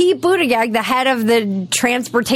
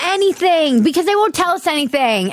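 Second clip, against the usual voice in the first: high-pitched, worked-up complaint; exasperated outburst; 8 semitones higher than usual. Real, not acted. Host complaining that nobody tells them, exasperated. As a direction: cut in with real exasperation.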